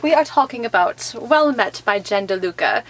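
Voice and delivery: a lightly done faux Olde English fair accent; hammed-up Renaissance fair accent, understated; terrible Renaissance accent. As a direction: say the book title like a mock Renaissance fair herald. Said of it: "my terrible accent".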